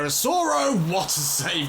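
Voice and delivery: sudden high-pitched shout of the name; excited yell. Real, not acted. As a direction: yell the name as the shot goes in. Commentating a chance on goal.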